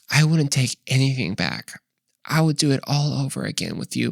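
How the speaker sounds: a light parody of a film confession; dramatic movie line. Pretend. Couple at a journey's end, hammed-up tender vow. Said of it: "that dramatic movie way".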